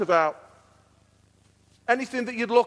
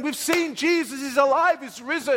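mildly excited, higher-pitched quote; excited retelling; 4 semitones higher than usual. Retold or imitated. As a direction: imitate friends bursting with news. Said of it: "they were all excitedly saying".

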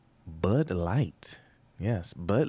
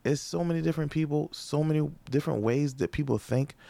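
building rant; 6 semitones higher than usual. Real, not acted.

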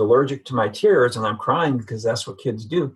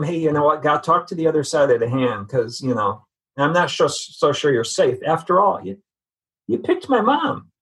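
mock accusing God; 3 semitones higher than usual. Son challenging God about his mother, rising mock indignation.

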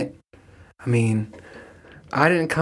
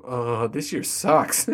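glum drag; 3 semitones lower, 5 dB quieter, much slower than usual. Retold or imitated. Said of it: "it's just like".

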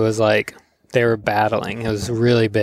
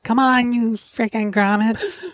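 gruff local uncle; 11 semitones higher, slower than usual. Retold or imitated. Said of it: "walk into our house and be like".

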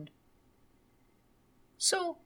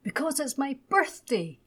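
higher, lightly voiced little boy; child's voice; 6 semitones higher than usual. A narrator's reading. Little Ted tells his mummy why he is excited, light child's voice. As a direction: answer like an obvious small boy. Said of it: "His mummy pretended to have forgotten".

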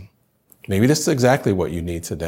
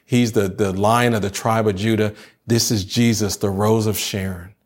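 building worship proclamation; preaching over music. Acted. Pastor declaring who Jesus is to the congregation, building fervour. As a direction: lift them up, declaring his names.

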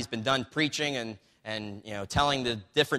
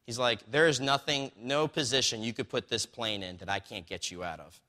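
calm instructor; 2 semitones lower than usual. Retold or imitated. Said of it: "the man was just so calm".

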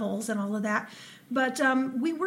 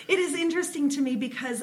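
laughing; 4 semitones higher, faster than usual. Real, not acted. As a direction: still giggling through the words. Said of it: "that cat is hilarious".

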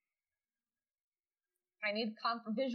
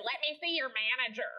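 pushy, fast entitled-customer emu; 2 semitones higher, faster than usual. Acted. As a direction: demand the manager like an angry emu. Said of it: "I like your emu voice".

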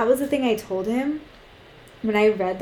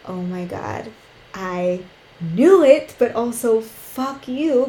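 slow, louder rising anger; building from stunned to furious; angry realization; 4 dB louder, slower than usual. Retold or imitated. Recalling the boyfriend's betrayal, slow growing fury. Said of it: "that feeling of like".

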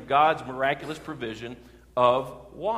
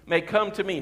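mild proclaiming shout; 5 semitones higher than usual. Acted. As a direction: call out the invitation without a full shout. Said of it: "Jesus stood and shouted to the crowds".

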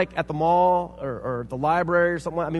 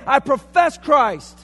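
slow solemn profession; 9 semitones higher, 11 dB louder, much slower than usual. Pretend. Quoting profession of faith.

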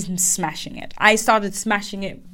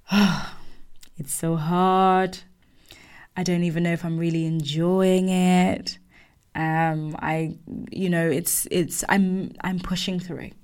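softer, low, mopey complaint; moody sulk; 4 semitones lower, 4 dB quieter than usual. Retold or imitated. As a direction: sigh it out like a sulky new hire. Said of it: "If you had spoken to me like this".

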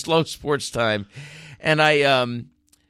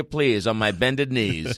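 mock begging; 3 semitones lower, slower than usual. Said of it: "I'm begging you".

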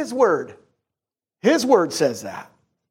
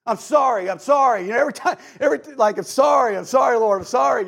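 a hammed-up, over-and-over sorry; frantic repeated apology; 5 semitones higher, faster than usual. Pastor mocking his own endless apologies to God, hammed-up. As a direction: rattle off sorries like you can't stop. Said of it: "I gotta say it, like, thirty times".

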